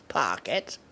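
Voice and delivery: put-on voice with a rising end; a short, odd-voiced catchphrase; not me talking. Host repeating the slang he disowned, not me talking. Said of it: "This isn't me talking".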